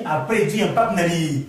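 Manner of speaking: ordinary talk, nothing marked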